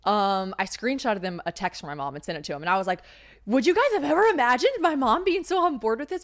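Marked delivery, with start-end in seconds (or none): 3.4-6.2 much higher and louder, gushing in disbelief; amazed disbelief. Retold or imitated. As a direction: squeal it to your friends like you can't believe it. Telling friends, amazed at mom.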